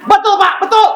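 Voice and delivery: high-pitched mock angry yelp; angry outburst. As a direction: act out an old grievance flaring up, pitch shooting up. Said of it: "Dia langsung marah. Emosi dia". (seruan marah bernada tinggi)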